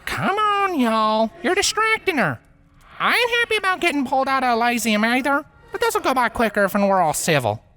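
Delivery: put-on high, drawled Southern country accent; easygoing Southern farm-girl accent; Southern accent, calming the others down. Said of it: "spoke in an accent foreign".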